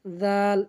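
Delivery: জাল as Arabic dh, tongue on tooth tips; tooth-tip dhal. Shown as a demonstration. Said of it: "দুই দাঁতের আগার সঙ্গে লাগাইতে হবে". (দাঁতের আগায় জিভ রেখে জাল)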